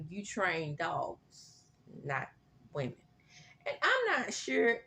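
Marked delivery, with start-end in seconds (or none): 0.1-3.0 slow pointed retort. Retold or imitated. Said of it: "looked back and said".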